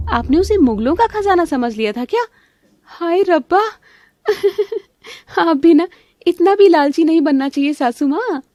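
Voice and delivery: high, sing-song teasing of the mother-in-law; mocking taunt. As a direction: needle her sweetly with a laugh. (ऊँची आवाज़ में चिढ़ाते हुए ताना)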